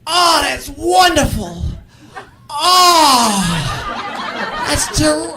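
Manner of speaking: rejoice like it physically hurts; Jerry half-crying congratulations; pained happy voice. Retold or imitated. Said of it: "sound like they're in pain".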